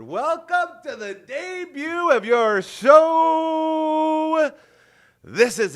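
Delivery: high, drawn-out announcer yell; slow, high hype-man holler; show-opening shout. Real, not acted. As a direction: open the show at full voice, stretching the words. Host opens the show.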